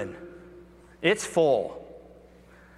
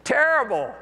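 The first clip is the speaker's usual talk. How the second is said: glum fisherman; 9 semitones higher, 3 dB louder than usual. Retold or imitated. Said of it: "how many times I've said that".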